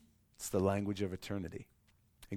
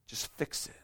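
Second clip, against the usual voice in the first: softer, breathy repeat; fading plea; 6 dB quieter than usual. Pretend. Believer's plea to God fading into a hush. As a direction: let the plea drain away.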